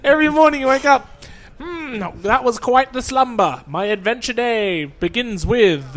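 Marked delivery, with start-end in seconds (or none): 1.6-6.0 slow, pompous storybook hero voice; drawn-out mock-epic waking line; grand awakening hero. Mocking game character waking up.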